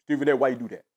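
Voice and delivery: lightly voiced Shannon Sharpe getting fed up; imitating Shannon Sharpe. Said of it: "if I'm Shannon Sharpe, I'm like".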